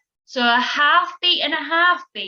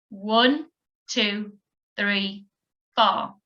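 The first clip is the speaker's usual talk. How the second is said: count-in; 2 semitones lower, slower than usual. Shown as a demonstration. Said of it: "have a go at that now".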